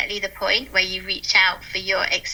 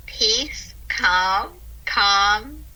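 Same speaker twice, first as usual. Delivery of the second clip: soft mantra demo; much slower than usual. Shown as a demonstration. Trainer showing listeners a calming word mantra, soft. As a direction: whisper peace, then calm gently. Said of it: "you just repeat that word".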